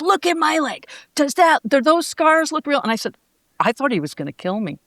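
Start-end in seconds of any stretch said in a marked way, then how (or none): 0.0-2.8 hammed-up wounded pride, showing scars; indignant wrestler.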